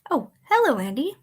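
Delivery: startled friend greeting; surprised hello. Acted. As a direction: caught off guard, then greeting.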